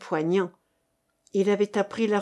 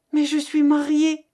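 naïvement; 6 semitones higher, 5 dB louder than usual. A narrator's reading. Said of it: "dit-elle naïvement".

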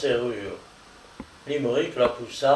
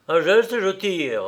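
higher-pitched armed threat; firm assertion; 6 semitones higher, 3 dB louder than usual. Acted. Workman aiming a revolver at Limerick, firm threat. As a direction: threaten firmly, meaning it. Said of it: "affirma-t-il".

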